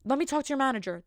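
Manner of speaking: mock aggressive manager demand; sassy entitled customer. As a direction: push it like an angry customer. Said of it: "aggressive and sassy".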